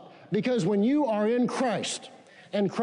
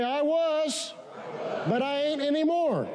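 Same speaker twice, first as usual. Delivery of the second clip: laughing; 6 semitones higher than usual. Real, not acted. Congregation repeat, laughing at grammar.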